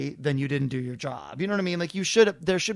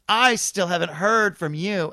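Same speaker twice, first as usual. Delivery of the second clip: accusing; 2 semitones higher, 6 dB louder, slower than usual. Retold or imitated. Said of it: "comes up to me ... and goes".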